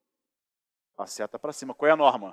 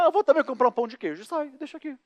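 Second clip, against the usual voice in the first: voz mais aguda e rápida de amigo despreocupado; mock casual friend; 10 semitones higher than usual. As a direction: imitando o colega saindo, agudo e ligeiro. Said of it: "Aí ele fala". (imitação leve do amigo, voz alta e rápida)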